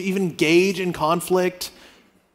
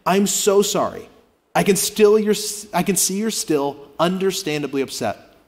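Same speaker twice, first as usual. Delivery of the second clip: model apology. Shown as a demonstration. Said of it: "Try this".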